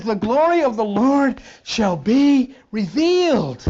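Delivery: scripture reading. Acted. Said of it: "it says".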